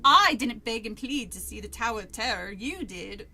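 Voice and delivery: loud first words in a badly faked British accent; overdone amateur London accent; botched British accent. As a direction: struggle through a British accent. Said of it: "that's worse".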